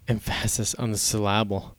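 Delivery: "Emphasis" stressed on PHAS, "syllable" on LAB; jokey em-FASS-is on the sil-LAB-le; misplaced stresses. Shown as a demonstration. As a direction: lean on the middle of "Emphasis" and "syllable". Joke with stresses on wrong syllables.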